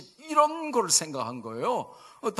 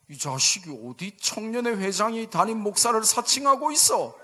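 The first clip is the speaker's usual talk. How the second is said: higher-pitched mock outrage; retold indignant scolding; 5 semitones higher than usual. Professor accusing the young pastor of impersonation, acted indignation. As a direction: scold a supposed impostor, mildly acted.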